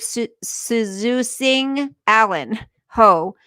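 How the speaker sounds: slowly sounding out "Suzu Singh Allen Ho", halting on each syllable; unsure name pronunciation. Real, not acted. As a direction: feel your way through a foreign name. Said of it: "I don't know how to say this word".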